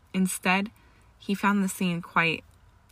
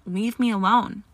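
loud, upset outburst; screamed demand; 3 semitones higher, 5 dB louder than usual. A narrator's reading. Granger drives Malfoy away, in a loud upset cry. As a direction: raise the voice to drive someone off. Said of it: "she screamed".

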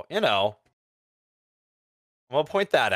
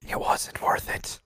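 whisper; slower than usual. Real, not acted. Whispered verdict on the movie.

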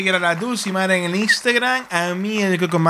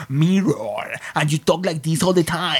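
imitando un acento de Nueva York, pronunciando todo de más; "Mirror" muy articulado a lo neoyorquino; neoyorquino exagerado; 3 semitones lower, slower than usual. Retold or imitated. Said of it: "como el norteamericano que vive en Nueva York". (acento neoyorquino exagerado)

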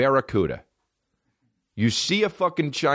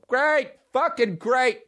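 higher, sarcastic grumbling dad; grumpy dad; much slower than usual. Retold or imitated. Dad overheard from the other room, grumbling sarcastically. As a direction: groan it like a fed-up father. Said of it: "you'd hear him from the other room".

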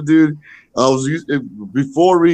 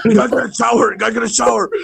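mock nagging; 6 semitones higher, much faster than usual. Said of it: "He's like".

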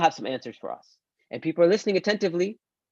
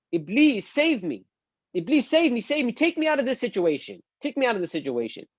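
mock desperate pleading; 6 semitones higher than usual. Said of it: "people are yelling and they're saying".

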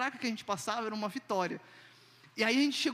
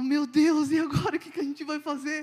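alarmed; 5 semitones higher, 6 dB louder than usual. Retold or imitated. Panic at check-in over luggage.

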